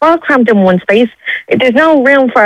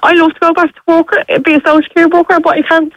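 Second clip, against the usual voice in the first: fighting back real tears while she talks; tearful, crying. Real, not acted. Mum telling radio host about cramped housing, crying. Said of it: "I'm sorry I'm crying".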